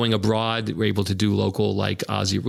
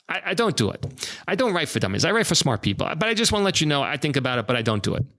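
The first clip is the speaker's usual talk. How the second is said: lightly voiced Doctor Ruth, higher; a hint of a tiny, firm old lady; understated Doctor Ruth refusing, pitched up; Doctor Ruth impression; 6 semitones higher, faster than usual. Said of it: "I can't do a great impersonation".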